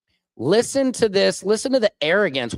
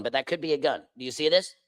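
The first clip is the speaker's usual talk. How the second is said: hushed mock conspiracy; 4 semitones lower, 7 dB quieter, faster than usual. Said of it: "this is what they're doing on Fox News".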